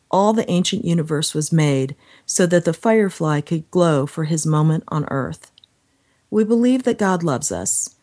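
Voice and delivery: measured reading of sacred prose; devotional reading. Acted. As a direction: read it out like a poetic meditation. Reads devotional aloud.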